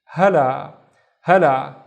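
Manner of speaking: hala loud, with the last aa held long; sounded-out word. Shown as a demonstration. Teacher joining two syllables, hala loud and drawn out. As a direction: stretch the second syllable of hala. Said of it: "split it into two syllables".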